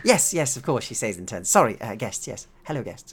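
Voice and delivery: high, loud, hurried agreement; sudden flustered yes; flustered scientist. Acted. Scientist reminded of her guests, flustered and high.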